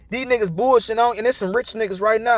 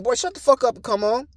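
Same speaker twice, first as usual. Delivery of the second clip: higher mock scolding; bossy woman imitated; 4 semitones higher than usual. Girlfriend correcting man in grocery store, imitated bossy scolding. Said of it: "Nah, she said".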